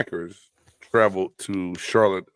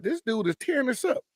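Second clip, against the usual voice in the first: mock players cracking up; 13 semitones higher, 3 dB quieter than usual. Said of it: "they're like".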